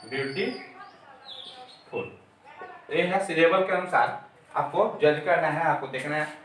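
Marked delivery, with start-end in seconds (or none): 0.1-2.0 stretched demo word. Shown as a demonstration. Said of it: "demonstrating superlative form".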